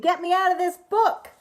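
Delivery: high panicked scream. Acted. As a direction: shriek it out in a high voice. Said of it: "and I screamed".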